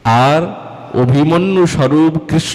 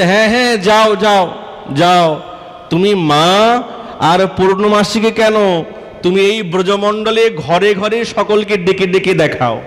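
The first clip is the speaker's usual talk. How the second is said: defiant dismissal; 5 semitones higher than usual. Acted. Radha dismissing Kutila defiantly.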